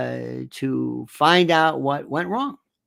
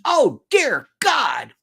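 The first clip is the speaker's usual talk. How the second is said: slow, louder, near-crying oh my God; anguished groan; 5 semitones higher, 4 dB louder, much slower than usual. Real, not acted. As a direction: moan in disbelief. Despair at Ted Williams.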